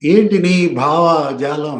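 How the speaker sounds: slow sneering quote of a taunt; mock sarcasm. Retelling Ambati's sarcastic taunt at Pawan, slow and mocking. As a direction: drag out ఏంటి with mock scorn. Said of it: "అక్కడ కూడా వెటకారమే, వ్యంగ్యమే".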